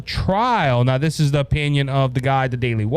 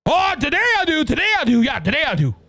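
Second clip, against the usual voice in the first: mock president; 9 semitones higher, faster than usual. Mocking the president's answer.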